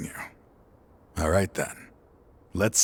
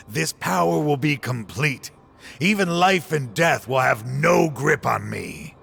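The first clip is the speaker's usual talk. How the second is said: triumphant shout; 5 semitones higher than usual. Acted. Old partner shouting his boast at Cyno. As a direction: shout it, drunk on power. Boasting of power before the door.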